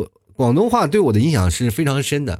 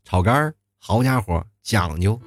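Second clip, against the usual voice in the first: put-on Beijing accent; 2 semitones lower than usual. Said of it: "他说，哎，这个".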